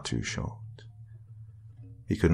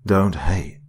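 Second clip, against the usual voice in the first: eerie whisper; 4 dB louder than usual. A narrator's reading. The voice answers Darrell.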